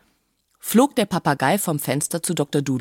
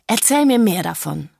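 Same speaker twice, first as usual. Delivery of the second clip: eager, higher-pitched plea; excited; 4 semitones higher, 3 dB louder than usual. A narrator's reading. Doctor begs the parrot for more, excited. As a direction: lean in with excited curiosity. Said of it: "sagte der Doktor ganz aufgeregt".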